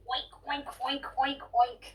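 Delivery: pig oink. Acted. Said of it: "what does the piggy say?".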